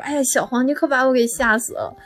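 a touch of tearful relief in the voice; half-crying with relief, gently imitated; mock relief after fright. Scared friend relieved to find friend.

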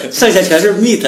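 laughing. Real, not acted. Laughing at own cheap vocabulary.

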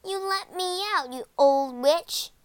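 high, indignant yell from a locked shed; yelling boy. A narrator's reading. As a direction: yell at the witch to let you out. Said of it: "heard her brother yelling from the shed".

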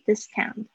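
"discount" with the first syllable stressed. Shown as a demonstration. Teacher showing the noun form, front-stressed "discount". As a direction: lean on the "dis" in "discount", as a noun. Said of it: "它有一个这个重音在前面的时候".

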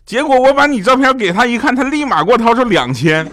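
high, loud mock-mother punchline; triumphant. (模仿妈妈得意地高声宣布)

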